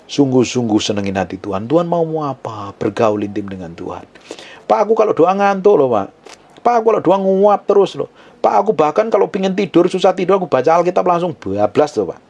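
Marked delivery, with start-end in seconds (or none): 4.7-12.2 high, sheepish complaining congregant; high hammed-up excuse to the pastor; mock whiny confession. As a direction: confess to the pastor like a sleepy believer. Acting a sleepy congregant's confession.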